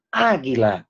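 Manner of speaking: águila with weight on the opening Á; Á-guila, first syllable accented; stressed first A. Shown as a demonstration. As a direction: lean on the first vowel of águila. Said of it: "Nota el acento indicando que la A es tónica".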